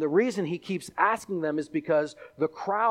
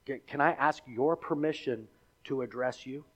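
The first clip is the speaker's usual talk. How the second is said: softer, polite plea as Paul; polite request; 4 dB quieter than usual. Retold or imitated. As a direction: ask humbly, quietly. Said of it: "Paul is very polite in his request".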